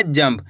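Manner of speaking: जंप as one syllable, lips closing on a short m before प; half-m. Shown as a demonstration. Teacher showing how to read it, जंप with a half-m. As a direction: say jamp, the m only half-sounded. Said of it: "यानी कि आधा माँ का उच्चारण निकल रहा है".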